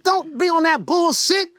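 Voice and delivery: high, laughing mock-father rebuke; dad voice, laughing. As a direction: scold the son through laughter. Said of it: "He said".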